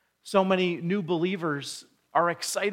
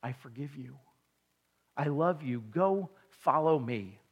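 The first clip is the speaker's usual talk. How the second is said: tender God. Retold or imitated. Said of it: "and God said".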